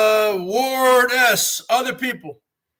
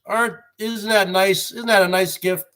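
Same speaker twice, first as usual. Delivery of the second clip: sarcastic. Real, not acted. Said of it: "sound a little sarcastic".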